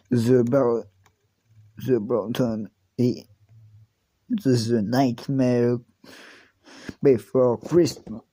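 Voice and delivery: slow, careful put-on English accent; a kid hamming up an English accent on the title; mock English accent. Kid proudly tries an English accent on the film title, slow and hammed. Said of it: "Mon accent anglais".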